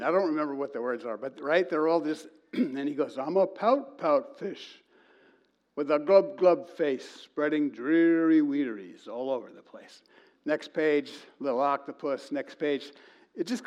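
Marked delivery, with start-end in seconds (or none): 3.2-10.0 slow, dreary fish chant; gloomy pout fish. Retold or imitated. Pastor telling the congregation the book, mopey fish rhyme.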